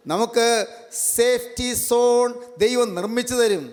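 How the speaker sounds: high, sustained preaching voice; declamatory sermon delivery. Real, not acted. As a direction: proclaim it phrase by phrase to a congregation. Preacher proclaims to congregation.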